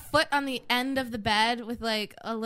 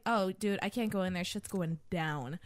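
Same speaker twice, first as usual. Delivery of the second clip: hushed; 4 semitones lower, 6 dB quieter than usual. Retold or imitated. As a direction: keep it low as if someone's outside the door. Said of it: "And I'm just like".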